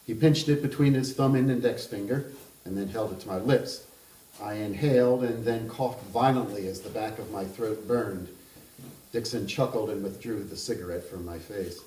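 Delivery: measured reading of a literary novel aloud; even, unhurried narrator voice; story narration. A narrator's reading. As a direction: read it like an author at a book event.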